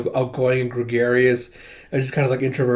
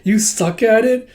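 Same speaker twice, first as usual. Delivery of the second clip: surprised question; 9 semitones higher, 3 dB louder than usual. Retold or imitated. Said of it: "she's just like".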